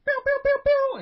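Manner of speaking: very high, loud pew pew; shrill blaster sound effect; laser gun noises. Acted. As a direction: fire mock laser shots. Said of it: "If I take one from Ollie".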